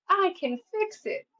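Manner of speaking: high, chirpy cartoon imitation of Felix; Fix-It Felix voice. Reader imitating Fix-It Felix to the parents watching, high cartoon voice. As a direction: squeak it out like the eager cartoon fixer. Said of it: "Felix Fixer Junior".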